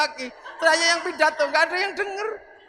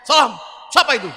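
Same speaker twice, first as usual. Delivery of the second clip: gruff Umar; 6 dB louder than usual. Acted. Umar answering the grave angels.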